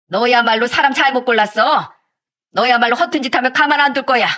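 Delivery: understated, acted angry yell; defiant shouting. Mother answering the fiancé's threats, mildly shouted defiance. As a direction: stand up to him indignantly. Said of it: "같이 소리치면서 말했습니다".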